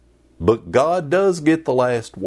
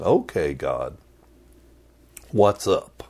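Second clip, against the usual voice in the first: whiny complaint; 2 semitones higher than usual. Retold or imitated. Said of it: "So now Jonah is going".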